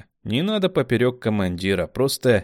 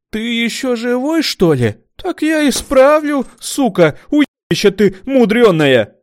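much higher, much louder screaming; predatory fury; 10 dB louder than usual. A narrator's reading. Kamila threatening the smart one, furious scream. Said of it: "хищной резиновой ухмылке".

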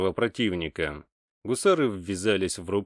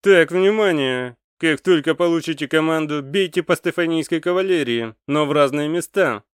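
commander giving orders; 8 semitones higher, 7 dB louder than usual. A narrator's reading. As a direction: bark out orders to the squad. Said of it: "сказал командир". (громкий медленный командирский приказ)

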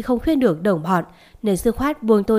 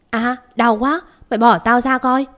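pained bellow; 3 semitones higher, 3 dB louder than usual. Acted. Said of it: "Thằng đó rống lên".

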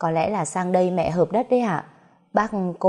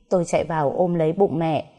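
ordinary delivery, nothing marked

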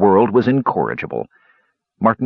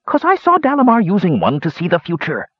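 put-on old dwarf voice; 10 semitones higher than usual. Dwarf hermit speaking.

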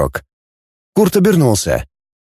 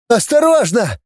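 high, panicky cry; yelping in alarm; 10 semitones higher than usual. A narrator's reading. Scientist tossed up to the ceiling, alarmed yell. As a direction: plead to be handled carefully. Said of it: "завопил Тенин".

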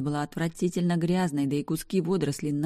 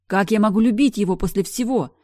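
loud, pitched-up cry; 5 semitones higher, 8 dB louder than usual. Acted. Sister cries out her denial to her brother, loud. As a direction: cry out in protest. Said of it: "вскрикнула я".

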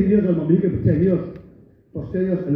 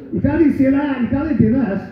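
pitched-up whiny mimicry of online critics; mock-whiny online critic, higher; mocking snowflake voice; 7 semitones higher than usual. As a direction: sneer at the keyboard warriors. Mocking keyboard warriors.

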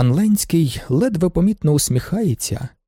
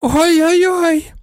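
very high, louder, slow wailing oy-oy-oy; hysterical sob; 4 dB louder, much slower than usual. A narrator's reading. Baroness collapses on the sofa after losing the bid, sobbing hysterically. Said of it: "істерично схлипує".

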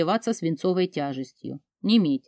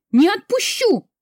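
much higher, louder scream; frantic scream; 13 semitones higher, 5 dB louder than usual. Acted. Heroine screams her refusal at full force. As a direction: break into full panic on it.

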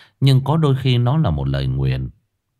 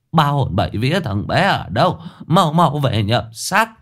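wailing call; 6 semitones higher than usual. A narrator's reading. Old woman calls back the sick man's soul, wailing. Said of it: "hú lên thảm thiết".

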